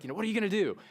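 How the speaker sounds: a hint of a scared little boy asking; anxious young son. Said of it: "Andrew's like".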